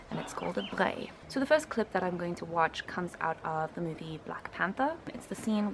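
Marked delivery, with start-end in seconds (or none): 0.6-1.1 "brei" with the R at the back of the throat. Shown as a demonstration. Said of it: "R is pronounced right at the back of the throat".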